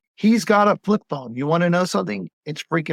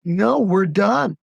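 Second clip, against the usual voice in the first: slow, final, higher no; firm refusal; 4 semitones higher, much slower than usual. Retold or imitated. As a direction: shut it down slowly and firmly.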